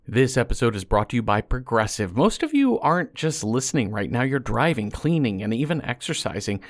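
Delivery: upbeat radio ad voice; ad read. Acted. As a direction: sell it like a radio spot. Host reads sponsor ad.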